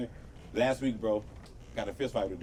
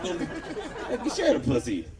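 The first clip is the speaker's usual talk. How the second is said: high squeaky don't; hammed-up high plea; mock plea; 7 semitones higher, 4 dB quieter, much slower than usual. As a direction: beg in a silly high voice. Mock pleading.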